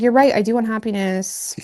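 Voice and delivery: dramatic mock agreement; hammed-up dramatic concession. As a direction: overplay the giving in. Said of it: "Oh my God, it's so dramatic".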